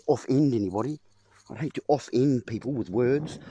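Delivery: "off-end" broken into two beats, off then end; split off-end. Shown as a demonstration. Speaker punning on offend for the viewers, "off-end" split in two. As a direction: say "off-end" as two separate halves. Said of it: "I don't want to off".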